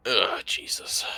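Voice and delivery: whisper. Acted. Whispered reaction.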